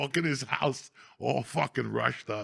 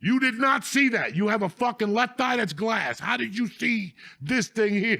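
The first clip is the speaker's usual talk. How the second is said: mock challenge; 10 semitones higher, 6 dB louder than usual. Kids challenging one-eyed ref.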